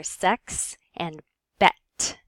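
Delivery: "sex" and "bet" with a clipped short E. Shown as a demonstration. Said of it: "cause you to clip that short E".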